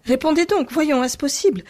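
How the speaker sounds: insistent repeated demand; raising her voice. A narrator's reading. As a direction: demand it again, "voyons" pushed hard, falling. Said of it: "répéta-t-elle en haussant la voix".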